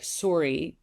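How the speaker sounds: light imitation of a Wisconsin accent; a hint of Wisconsin in the vowels. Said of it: "she used to say".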